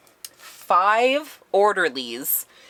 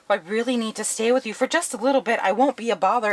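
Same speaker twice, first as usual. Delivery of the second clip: higher-pitched, mildly pleading voice; pleading request; 5 semitones higher, faster than usual. Retold or imitated. Resident asking family to take them in, pleading. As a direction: act out begging a small favor.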